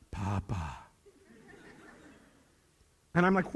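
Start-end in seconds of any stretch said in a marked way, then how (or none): 0.1-0.8 put-on soft low little-kid whine; grandkids' voice. Granddaughters scolding grandpa, in a soft whine. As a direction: mimic the twins whining at grandpa. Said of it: "And they're like".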